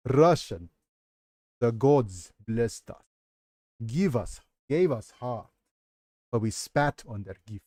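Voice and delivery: put-on a playful stab at a Russian accent. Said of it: "very, very sus Russian accent".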